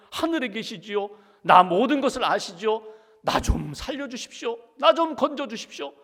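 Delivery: begging God for real, from his own life; desperate pleading prayer. Retold or imitated. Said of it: "자기 삶으로 실존적인 문제를 가지고 하나님 앞에 기도하는".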